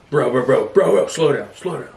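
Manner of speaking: rapid-fire pretend panic, rising in pitch; mock alarm. Passenger begging an Uber driver, mock alarm. Imagined pleading with a speeding driver.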